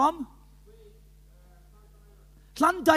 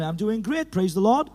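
voicing mother-in-law; 5 semitones lower than usual. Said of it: "She's old classical Pentecostal".

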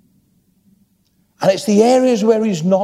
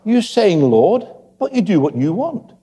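gentle Jesus; 6 semitones higher than usual. Acted. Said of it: "Jesus just gently says".

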